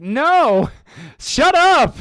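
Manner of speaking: loud, very high protesting yell; mock yell. To Marisa bringing up the video, a loud, high mock yell. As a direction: shout it down, half laughing. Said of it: "I was like".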